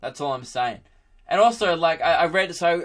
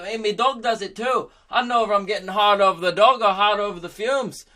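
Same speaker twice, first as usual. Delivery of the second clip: raised, hammed-up local grumbling about the factory; Irish villager voice; 5 semitones higher than usual. Villager tells his neighbour about the factory, in a raised, hammed-up voice. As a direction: play the baffled villager blaming the fumes. Second villager answers in character.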